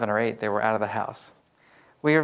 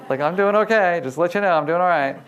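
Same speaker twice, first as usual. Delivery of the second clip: insisting loudly; 5 semitones higher, 5 dB louder than usual. Retold or imitated. Retold reply to brother.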